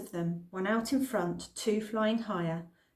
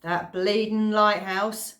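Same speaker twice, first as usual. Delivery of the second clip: put-on grumbling old man; 6 dB louder, slower than usual. Old Mister Watkins grumbling.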